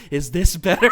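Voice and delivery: high, bubbly cartoon pony voice; Rainbow Dash voice. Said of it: "changes into Rainbow Dash".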